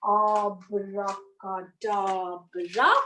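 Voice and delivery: slow, drawn-out spell; magic spell. A narrator's reading. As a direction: stretch it like a stage magician. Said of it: "the rainbow started saying".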